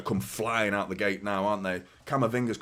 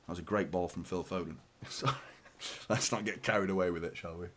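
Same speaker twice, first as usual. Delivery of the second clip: softer, lower, chuckled apology; sheepish climb-down; 6 semitones lower, 9 dB quieter, faster than usual. Real, not acted. Commentator backing off after his mock rant, sheepishly quiet. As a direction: drop right down after getting carried away.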